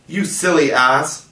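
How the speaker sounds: Tink, furious, insulting Peter; passionate cry. A narrator's reading. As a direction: fling the insult at him. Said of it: "cried Tink in a passion".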